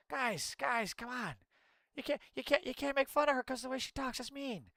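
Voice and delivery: hammed-up simpering complaint; mock whiny defender. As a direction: parody a pleading scold. Mocks defenders of governor.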